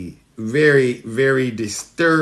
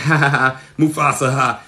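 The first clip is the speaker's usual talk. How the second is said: hyena cackle. Retold or imitated. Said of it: "they would start laughing".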